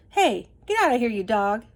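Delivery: shouting after a dog, loud and rough; angry shout. Acted. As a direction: yell at the dog to get lost. Tramp chases dog off garbage.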